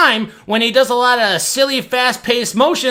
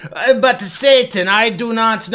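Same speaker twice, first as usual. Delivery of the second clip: halting Italian-accented impression; slow, put-on Italian accent; accidental Italian accent; slower than usual. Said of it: "I don't know why he sounds Italian".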